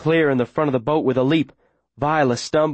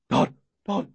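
fainter barking; 4 semitones higher, 3 dB quieter than usual. Acted. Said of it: "Getting fainter".

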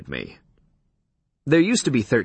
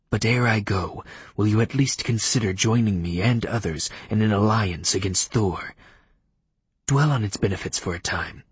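vampire Leif voice; 2 semitones lower than usual. Acted. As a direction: speak like a cool, stiff old vampire. Leif takes his leave.

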